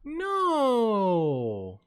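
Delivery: high, loud, slow theatrical outrage; outraged rant. Acted. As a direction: rant like a scandalized villain. Outraged rant at opponent cheating.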